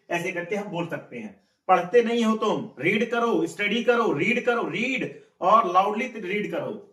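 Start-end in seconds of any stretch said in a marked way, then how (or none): 1.7-6.8 higher-pitched teacherly ordering; mock scolding command. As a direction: order a pupil to get reading. Teacher acts out ordering a pupil. (डाँटकर आदेश देने का हल्का अभिनय)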